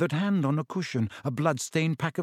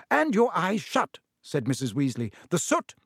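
motherly voice; 2 semitones higher than usual. Acted. Mrs Weasley fussing.

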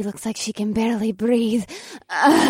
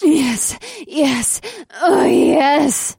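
ecstatic cries; 5 semitones higher, 3 dB louder, much slower than usual. Acted.

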